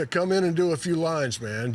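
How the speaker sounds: lightly acted, sweeping offer; sweeping invitation. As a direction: wave them in with a mildly expansive call. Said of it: "Jerry says sweepingly".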